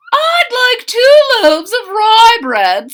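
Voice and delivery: high, slow lady's voice; a lightly voiced short lady asking; high and slow customer order. A narrator's reading. Customer voiced in read-aloud story.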